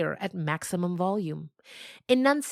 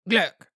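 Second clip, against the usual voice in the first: awkward burp; 2 semitones higher, 7 dB louder than usual. Acted. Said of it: "burped Mama Chi-Chi awkwardly".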